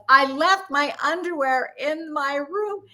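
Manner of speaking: exasperated, drawn-out mock yell. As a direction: spell it out for a bad phone line. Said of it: "louder and louder".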